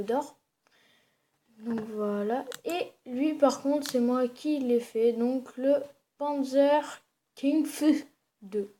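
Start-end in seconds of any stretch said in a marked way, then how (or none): 6.2-8.7 slow, hammed-up German accent. Reading out his tank's name in a mock German accent. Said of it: "magnifique accent allemand".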